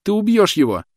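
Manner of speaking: very high, loud shriek; piercing shriek. A narrator's reading. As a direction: shriek it in panic. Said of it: "пронзительно завизжала девушка".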